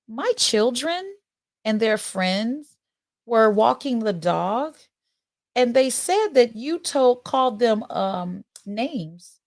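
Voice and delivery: sweet, measured and overly polite; Karen voice. Acted. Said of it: "So now I have my Karen".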